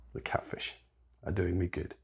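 a hushed whispered repeat. Shown as a demonstration. Preacher leads the congregation in a whispered repeat. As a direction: whisper the line back.

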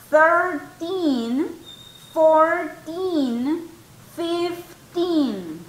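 put-on Thirteen, fourteen, fifteen with TEEN pushed and rising; stress on teen. Shown as a demonstration. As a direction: lean on the teen ending. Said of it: "En teen". (acento en la sílaba teen)

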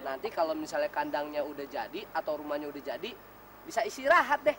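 cooing to a pet. Acted. Husband coos to his chicken.

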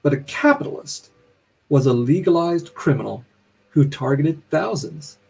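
measured reading of a narrator's musing; literary reading. A narrator's reading. Author reading the narrator's self-questioning aloud, measured and deliberate. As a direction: read it deliberately, pausing between phrases.

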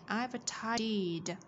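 slow "I've tidied" with the final d sounded; clear ED ending. Shown as a demonstration. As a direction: stretch "tidied" and release its ending d. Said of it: "E D ở đây chúng ta sẽ đọc là". (đọc chậm "tidied", rõ âm d cuối)

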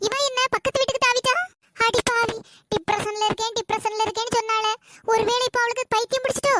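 shocked mother. Acted. Mother shocked at daughter hopping roofs.

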